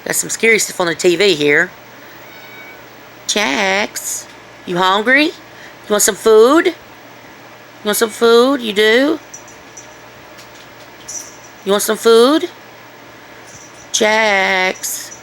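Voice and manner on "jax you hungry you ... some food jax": coaxing pet talk. Real, not acted. Talking sweetly to the dog.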